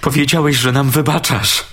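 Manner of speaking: frantic pleading. A narrator's reading. Man pleading in fear.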